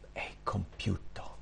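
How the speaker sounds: slow, barely audible whisper; hushed, slow whisper; whispered last words. Acted. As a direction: breathe it out like a dying man's last words. Quoting Jesus' dying last words.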